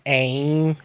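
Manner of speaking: American vowel demo with an added Y; nasally American accent. Shown as a demonstration. Explaining American accents to co-host, nasally American vowel. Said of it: "It's kinda nasally, American accents".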